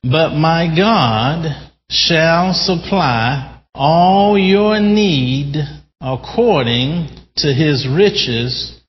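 leading the church in unison scripture; congregational reading. Real, not acted. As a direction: read it together, slowly and fervently. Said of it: "Let's read that together in unison".

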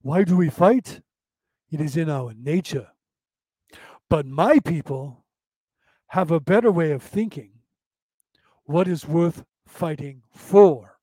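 imitated Asian accent, calm and wise-sounding; a light put-on Asian accent, measured and philosophical. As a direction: quote the panda sage in an Asian accent, slowing at the end. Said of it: "He says it with an Asian accent".

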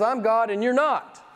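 a hint of divine authority; God. Preacher quoting God in Isaiah to the congregation, lightly voiced as God. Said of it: "I love it when he talks like this".

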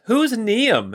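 high, urgent demand over the shoulder; sharp question. Acted. Scientist demands the name from her team, high alarm. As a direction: toss it back to the others, alarmed.

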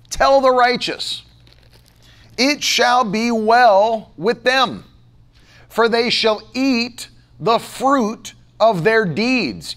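slow, emphatic Bible recitation; scripture reading. Acted. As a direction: proclaim the verse slowly, in separate phrases. Reads scripture aloud to congregation.

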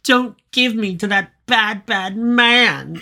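very high, whimpering bird voice; pleading bird. Retold or imitated. Bird begs Fred and Barney not to hand it over, high whimpering plea. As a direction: beg like a frightened little bird. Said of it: "the Dicta bird's like".

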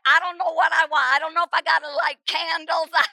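retold frantic pleading, half shouted; frantic screaming. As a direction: spill it all out in a rising panic. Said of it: "And I'm screaming".

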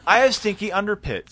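laughing through the fix; laughing correction. Real, not acted. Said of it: "I mean, under".

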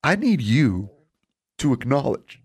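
lightly voiced wrestler calling for respect; wrestling promo. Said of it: "and he goes".

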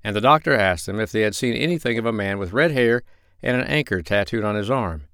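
usual speaking voice

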